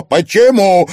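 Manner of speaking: sharp, high and loud; harsh question. A narrator's reading. Daughter pressing her mother, harsh loud why. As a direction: demand it hard. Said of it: "жёстко спросила Луиза".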